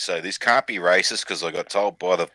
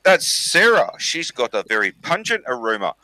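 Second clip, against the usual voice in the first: Maori chief; 5 semitones higher than usual. Acted. Chief identifying the second woman, mock Maori accent. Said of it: "And he goes".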